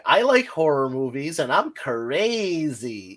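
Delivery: lightly mocking girl, drawing out "crazy"; gushing Hot Topic girl, hammed up; horror-fan girl. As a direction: stretch the last word like a self-styled wild girl. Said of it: "like, a girl that's like".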